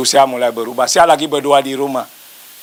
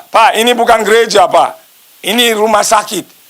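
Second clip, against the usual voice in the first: higher-pitched mock reprimand; dokter reprimanding; 5 semitones higher than usual. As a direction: put the pastor straight, voice raised in pitch. Dokter menegur pendeta di rumah sakit. (menegur dengan nada tinggi)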